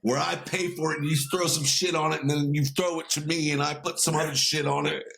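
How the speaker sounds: lightly voiced comic rant, insistent; Bill Burr rant. Copying a comedian's rant about condiments, mock indignant. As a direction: hammer the hot dog line like a stand-up bit. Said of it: "I'm gonna copy Bill Burr".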